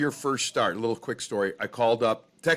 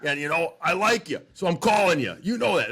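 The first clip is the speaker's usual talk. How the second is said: Red's voice; 3 semitones higher, 3 dB louder than usual. Retold or imitated. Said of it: "in typical Red fashion".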